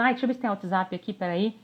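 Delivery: half-listening, checking the phone; mock distracted listener; distracted aside. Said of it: "você não tá vendo".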